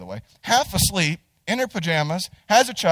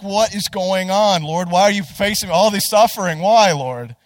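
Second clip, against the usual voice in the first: fuming at the Lord; 3 semitones higher, 5 dB louder than usual. Retold or imitated. Hobbled man fumes at the Lord in line, exasperated. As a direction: cry out to the Lord in mock anguish. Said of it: "I'm fuming".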